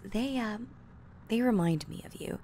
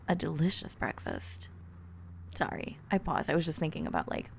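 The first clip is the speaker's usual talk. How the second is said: ordinary talk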